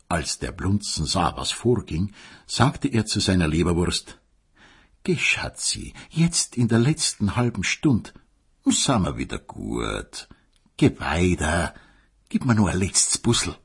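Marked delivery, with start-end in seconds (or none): 5.0-13.6 tender plea. Acted. Blunzen bittet zärtlich um Versöhnung.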